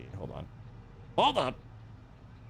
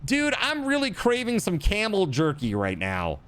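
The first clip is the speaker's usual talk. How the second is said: mock craving; 8 semitones higher than usual. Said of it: "who's like".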